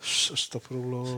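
exasperated sigh. Real, not acted. Exasperated at friend's question.

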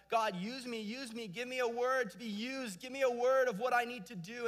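high, pressing prayer; eager plea. Retold or imitated. Believers begging God for a word, eager high plea. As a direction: beg God eagerly, rising.

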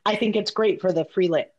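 fighting back a hiccup. Real, not acted. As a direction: cut off by a hiccup mid-word. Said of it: "sorry, hiccups".

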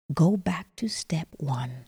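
ordinary delivery

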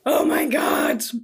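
hammed-up admiration; acted awe. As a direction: draw it out in mock swooning. Retells being starstruck by him.

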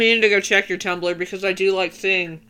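talking with a mouthful; words round a bite of food; mouth full. Real, not acted. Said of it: "sorry, my mouth is full".

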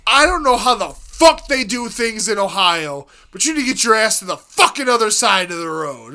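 mock Boston accent, barking orders. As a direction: play a gruff Massachusetts trooper in a Boston accent. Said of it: "the most Boston, Boston accent".

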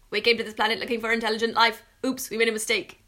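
loud, fast alien impression. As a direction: play a hammy space alien. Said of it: "Daniel's impression of an alien".

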